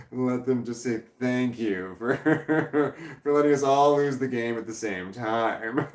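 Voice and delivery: real laughter breaking up the sentence; laughing through words. Real, not acted. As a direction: try to finish the sentence while cracking up. Laughing while teasing the culprit.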